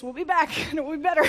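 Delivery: laughing. Real, not acted. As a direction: laugh through the joke. Joking about Star Wars villain's return.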